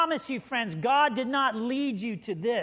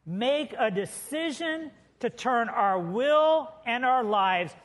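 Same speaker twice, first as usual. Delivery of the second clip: slow, deliberate group recitation; loud and clear; slower than usual. Shown as a demonstration. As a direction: lead the room reading out loud, slowly and clearly. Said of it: "loud and clear".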